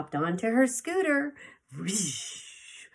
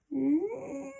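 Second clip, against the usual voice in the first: sudden high yelled "No!"; a little girl's shout, pitched way up. Acted. Baby sister shouts at the dragon, a high sudden yell. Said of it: "the seventh sister shouted".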